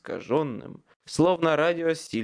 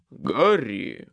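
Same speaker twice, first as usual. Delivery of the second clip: insistent call; 6 dB louder than usual. A narrator's reading. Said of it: "не сдавался Майкл".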